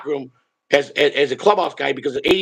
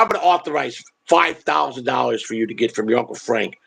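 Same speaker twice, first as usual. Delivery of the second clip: lower-pitched retold dad, granting a favor; imitating a favor-giver, pitched down; doing a favor; 5 semitones lower than usual. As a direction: quote him as if bestowing a big favor. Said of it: "like he's doing me a favor".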